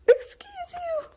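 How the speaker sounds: high slow mock indignation; mock offended. Real, not acted. Puppy climbs the couch, high slow mock offense. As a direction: stretch it out, offended.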